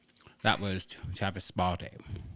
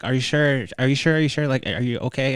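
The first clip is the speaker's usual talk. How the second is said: worried helpers; 5 semitones higher, 11 dB louder than usual. Retold or imitated. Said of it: "they're like".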